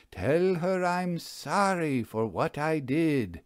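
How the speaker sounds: slow solemn incantation of Tell her I'm sorry; the magician intones the ghost's message, slowly; slow intoning. Acted. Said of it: "He intoned".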